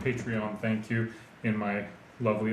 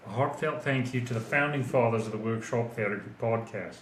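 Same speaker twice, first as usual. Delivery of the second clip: put-on Australian accent. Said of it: "best Australian accent".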